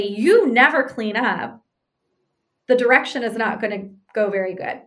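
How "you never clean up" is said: slow, pressed accusation; mock accusing wife, drawn out and blunt; harsh startup. Shown as a demonstration. Wife coming home to her husband, harsh critical opener. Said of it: "So if I come in and say".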